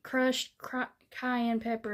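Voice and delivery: stumbling over words; tongue-tied. Real, not acted. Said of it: "if I can speak".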